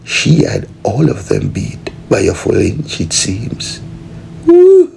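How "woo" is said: high, loud victory whoop; joyful high yell; triumphant whoop. Acted. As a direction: celebrate the win. Winner celebrating.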